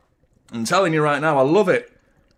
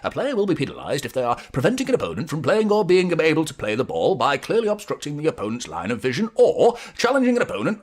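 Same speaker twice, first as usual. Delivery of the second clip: reading the rule; 3 semitones higher than usual. Acted. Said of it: "Offside, interfering with an opponent".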